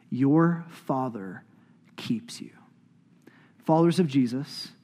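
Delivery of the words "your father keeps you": slow, hushed reassurance; tender blessing. Real, not acted. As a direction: let the last words sink almost to a whisper. Slow blessing spoken to congregation.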